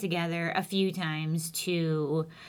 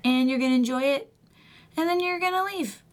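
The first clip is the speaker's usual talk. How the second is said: measured self-coaching pep talk; lightly acted stern talk to yourself; internal monologue; 3 semitones higher than usual. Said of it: "what goes on inside my head".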